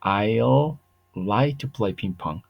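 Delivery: slow English demo. Shown as a demonstration. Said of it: "o puedo decir".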